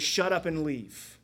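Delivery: slow, firm dismissal; stern command. Acted. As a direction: Shut up and leave, said slow and firm like an order. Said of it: "He says".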